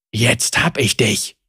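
low, slow grumble of the leader; grumbled gloat. A narrator's reading. The guard leader gloats over Zeri, low and slow. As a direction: gloat over the fallen girl. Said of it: "brummte der Anführer".

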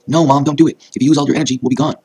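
high, loud desperate plea; crying out. A narrator's reading. Daughter begging her mother not to sacrifice herself, crying out. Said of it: "she cried".

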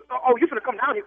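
ordinary talk, nothing marked

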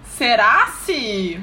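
slow sarcastic. Retold or imitated. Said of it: "sendo sarcástica".

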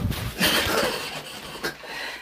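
long breathy laugh. Real, not acted. Guest after taunting the host, drawn-out laugh.

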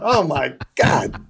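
slow, understated retold dismay; sinking dismay. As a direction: draw it out as if your heart just sank. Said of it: "my heart just sank".

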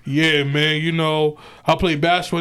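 mock deep man voice. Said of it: "you better sound like".

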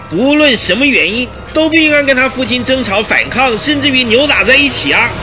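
worked-up indignant argument, often pitched high. Acted. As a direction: argue your case with rising indignation. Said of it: "因而愤慨的面红耳赤的赖士德队长". (愤慨地据理力争)

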